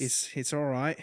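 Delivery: lightly put-on Aussie; playful Australian accent. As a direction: modest reply in mock Australian. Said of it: "talk the rest of this episode in that accent".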